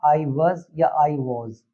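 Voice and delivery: "was" said slowly as "woz", then as "wuz"; teacher drawing out "was" as "woz" and "wuz"; careful pronunciation. Shown as a demonstration. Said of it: "इसे हम वॉज या वज pronounce करेंगे".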